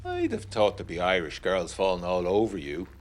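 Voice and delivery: a touch of a sneer under friendly Irish banter; familiar sneer. Acted. Meathall needling the newcomer during the smoke break, sneering. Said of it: "the sneer underneath it".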